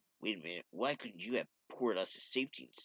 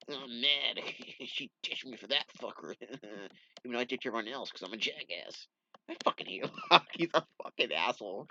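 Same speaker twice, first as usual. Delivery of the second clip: laughing rant. Real, not acted. Reader laughs while venting about Locke.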